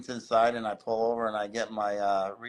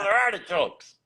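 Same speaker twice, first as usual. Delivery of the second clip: higher, correcting him through laughter; laughing correction; 8 semitones higher, 5 dB louder than usual. Retold or imitated. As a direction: set him straight while laughing. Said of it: "I go".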